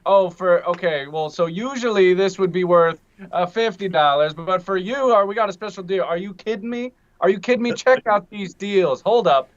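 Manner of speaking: hyped-up mock infomercial sales pitch; infomercial pitchman. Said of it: "the, the infomercial things there".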